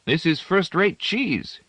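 high, slow, contented praise; a mild, content relish; contentedly. A narrator's reading. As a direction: savour the words like the cheese. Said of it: "munching his bread and cheese contentedly".

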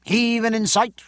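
high-pitched working calls; sailors' cries. A narrator's reading. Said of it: "the cries of".

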